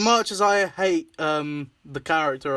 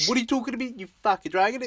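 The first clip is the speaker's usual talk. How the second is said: high mock cartoon Aussie voice; Sassy impression; 7 semitones higher, much faster than usual. Quoting a favourite cartoon character in a high put-on voice. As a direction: imitate a cartoon character, pitched up.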